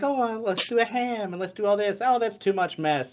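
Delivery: high mock mom voice; lightly voiced fussy mom; imitating mom.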